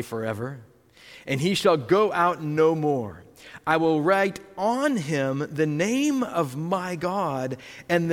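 slow, weighty reading of the verse; solemn preacher's reading; scripture reading. Acted. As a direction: let each promise land slowly. Reads scripture aloud.

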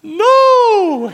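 a loud mock No breaking into laughter; laughing refusal. Pastor refusing Peter's request, laughing. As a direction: deny it, then crack up.

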